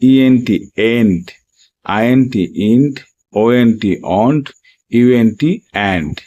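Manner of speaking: steady, careful teaching drill; spelling drill. Shown as a demonstration. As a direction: spell the letters, then say the blended sound. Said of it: "দেখো উচ্চারণগুলি ঠিক এইভাবেই করতে হবে". (শিক্ষকের মতো বানান করে উচ্চারণ)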